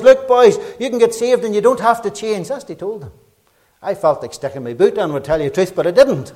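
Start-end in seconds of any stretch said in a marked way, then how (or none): 0.0-2.5 put-on higher, louder breezy call to drunks; hammed-up clown of a boy; mock careless preacher. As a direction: imitate a glib street preacher. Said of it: "He says".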